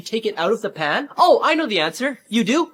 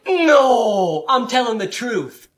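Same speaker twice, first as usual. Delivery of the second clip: whiny protest; much slower than usual. Acted. Caught kid protests innocence.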